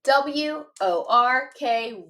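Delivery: letters spaced out slowly; slow spelling. Shown as a demonstration. Teacher spelling a tricky word slowly for students. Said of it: "One more time".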